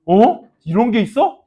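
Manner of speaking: a quick surprised 어, lightly acted; mock surprise. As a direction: play a student stumbling on a video. (영상 발견한 학생 흉내, 살짝 놀란 척)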